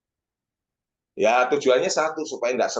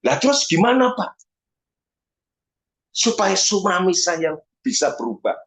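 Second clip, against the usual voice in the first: higher, imitated question from an anxious wife; lightly voiced pleading wife; 4 semitones higher than usual. Wife asks pastor how her husband can change, lightly imitated plea. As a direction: lightly act out a wife appealing for help.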